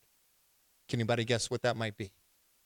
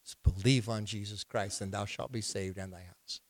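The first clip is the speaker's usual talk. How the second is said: Paul's answer; 5 semitones lower, 7 dB quieter than usual. Retold or imitated. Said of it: "And he said".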